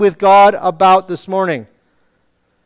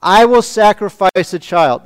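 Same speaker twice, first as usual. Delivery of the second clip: sarcastic. Retold or imitated. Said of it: "this is sarcastic and rhetorical".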